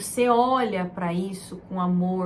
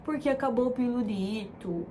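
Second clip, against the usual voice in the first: mock comforting; slower than usual. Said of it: "Você fala".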